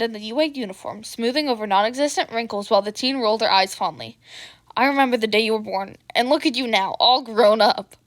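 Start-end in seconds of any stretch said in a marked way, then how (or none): 4.8-7.9 gushing. Acted. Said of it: "The blonde gushed".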